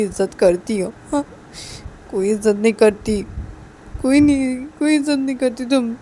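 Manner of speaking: loud, upset retort; acted indignant outburst; hurt accusation. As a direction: fling the reproach back loudly. Hurt spouse keeps up the accusation.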